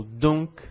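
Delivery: "donc" with the c sounded as k; French "donc" ending in an audible k; final consonant pronounced. Shown as a demonstration. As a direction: release a clear k at the end of "donc". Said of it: "e palavras com C".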